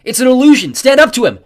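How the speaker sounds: high shout of encouragement; loud, pressing exhortation; urgent yell. A narrator's reading. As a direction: yell to rally a frightened friend. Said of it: "I yelled".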